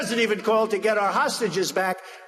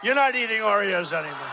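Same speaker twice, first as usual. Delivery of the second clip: laughing shout. Shown as a demonstration. Telling the crowd Chris joins the boycott, laughing shout. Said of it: "neither is Chris".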